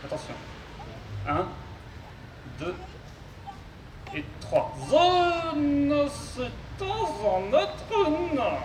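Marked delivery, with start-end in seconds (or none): 4.9-8.6 high, slow robot voice with garbled consonants. Acted. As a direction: mangle the consonants like a glitchy robot. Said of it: "souffre d'une pathologie vocale".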